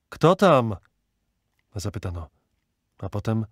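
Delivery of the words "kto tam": loud, higher challenge; sharp rise in voice, calling through a wall. A narrator's reading. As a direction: call "who's there?" into the dark. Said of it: "krzyknął przez otwór".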